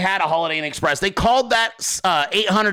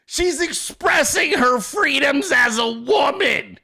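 mock Democrat; 6 semitones higher, slower than usual. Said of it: "the Democrats would be like".

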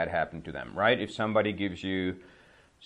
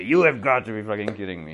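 a touch louder mock coach outburst; coach yelling; 4 dB louder, faster than usual. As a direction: grumble it at the referee. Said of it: "Vždycky někdo vyloučí jim hráče".

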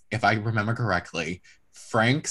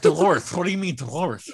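Frank protesting; 6 semitones higher, 3 dB louder than usual. Retold or imitated. Acting out husband protesting the exit.

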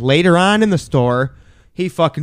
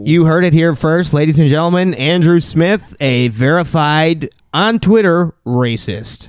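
announcer. Pretend. Mock announcer outing cohost.

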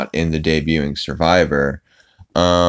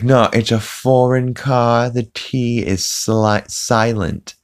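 slow, raised cartoon-dad impression; insistent Peter; 6 semitones higher, slower than usual. Peter correcting Brian about the foreign car, mock insistence. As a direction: insist slowly, pitched up, in imitation.

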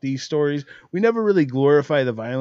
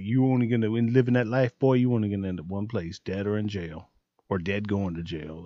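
stern mom warning; 9 semitones lower, 6 dB quieter than usual. Retold or imitated.

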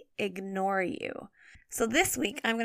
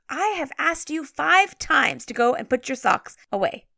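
mildly raised, acted fed-up parent voice; mock exasperation; 3 semitones higher, 5 dB louder than usual. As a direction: imitate a parent who has had to ask too often. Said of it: "in a really loud and exasperated voice".

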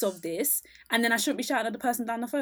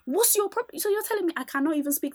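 retold outraged rant; 4 semitones higher than usual.

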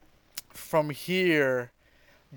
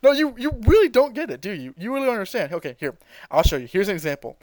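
higher, mocking villain voice; mocking Frieza; 6 semitones higher, faster than usual. Frieza taunting Goku before firing, mocking and high. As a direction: taunt them, condescending. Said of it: "Frieza's like".

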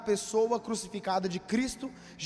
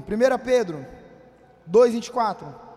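louder, calling the verse to the room; 7 dB louder than usual. Real, not acted. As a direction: announce the reference loudly. Calling out Bible reference.

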